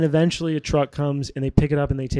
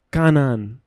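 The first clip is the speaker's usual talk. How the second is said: Jamaican accent. Real, not acted. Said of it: "Why did I say that in a Jamaican accent?".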